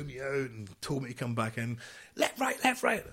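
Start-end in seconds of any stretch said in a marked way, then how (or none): 2.2-3.0 high, barked marching count; drill commands. Retold or imitated. Sergeant major marching a soldier in, barked drill count.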